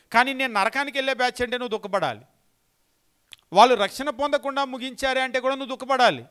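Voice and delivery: loud, high preaching in full flow; fiery preaching. Acted. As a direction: hammer the point home to the congregation. Preacher rises to full force.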